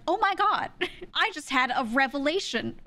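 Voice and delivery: high, hammed-up amazement; theatrical kid. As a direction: overact a grand revelation. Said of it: "this whole theatrical bit".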